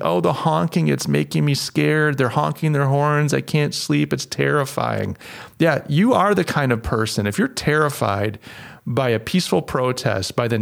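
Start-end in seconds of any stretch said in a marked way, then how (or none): 0.0-5.2 mock complaining. Host mimicking tweets about truck honking, mock complaining. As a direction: mimic a fretful complainer, lightly mocking. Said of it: "people complaining".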